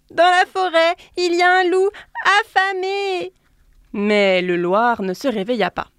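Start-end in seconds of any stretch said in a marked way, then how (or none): 0.1-3.3 high, loud urgent shout; frantic warning. A narrator's reading. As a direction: cry out the danger in a panic. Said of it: "cria le lièvre".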